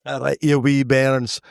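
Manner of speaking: brief, slow stab at a Scottish accent; amateur Scottish accent on request. Shown as a demonstration. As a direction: try a light Scottish accent, slowly. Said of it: "Can do the accent".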